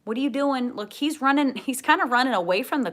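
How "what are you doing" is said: voicing the dog. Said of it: "the dog is like".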